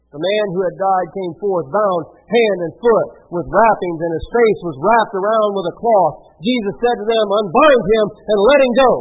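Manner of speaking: measured Bible reading; scripture reading. A narrator's reading. Preacher reads Jesus praying to the Father, steady scripture reading. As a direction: read the passage out steadily.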